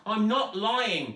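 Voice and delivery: high, loud, slow protest; protesting girl. A narrator's reading. Zoe protesting to Sheila and Bert, high loud protest. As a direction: insist through the fear. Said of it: "protested Zoe".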